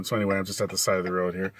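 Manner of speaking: hazard flashers ticking behind voice; clicking in background. Real, not acted. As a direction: roadside with clicking blinkers. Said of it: "You can probably hear the clicking in the background".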